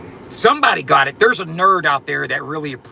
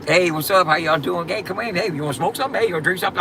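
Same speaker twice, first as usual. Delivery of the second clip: higher, bright welcoming host; overly friendly; 6 semitones higher, faster than usual. Retold or imitated. Playing the too-friendly host at his door, high and eager. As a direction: greet guests at the door, eager and upbeat. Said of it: "I'm too friendly".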